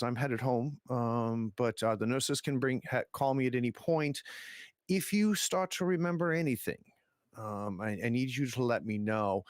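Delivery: condescending doctor. Acted. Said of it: "a condescending tone to it".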